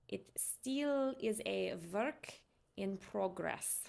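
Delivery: put-on slow, careful practice Russian accent; still-shaky Russian accent, word by word. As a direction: try out a learner's Russian accent. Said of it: "developing my Russian accent".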